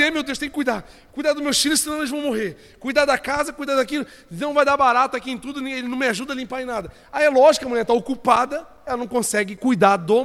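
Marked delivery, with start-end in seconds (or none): 0.0-6.9 higher-pitched fretting wife impression; anxious wife. Wife left alone with house and kids, acted fretting. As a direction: rattle off worries as an overloaded wife. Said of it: "Aí ela tá ali".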